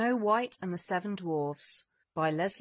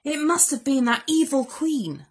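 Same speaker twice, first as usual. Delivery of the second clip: dwarfs; 6 semitones higher, 4 dB louder than usual. Acted. Dwarfs speak.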